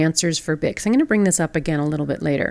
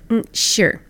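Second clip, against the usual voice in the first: imitated cool, grudging agreement; kinda cold; 4 semitones higher than usual. Flight attendant to the second passenger asking, cold. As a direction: agree with obvious reluctance, as in imitation. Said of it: "she was kinda cold".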